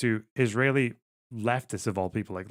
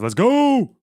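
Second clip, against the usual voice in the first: excited cheer; 13 semitones higher, 10 dB louder than usual. Real, not acted. Cheering tax cut for himself.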